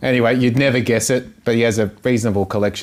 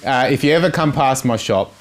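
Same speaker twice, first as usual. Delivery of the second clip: laughing quote; 5 semitones higher than usual. Retold or imitated. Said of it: "He goes".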